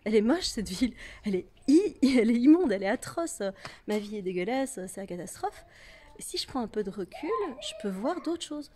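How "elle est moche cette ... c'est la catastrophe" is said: mock disgust. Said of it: "coller mon front au poteau et dire".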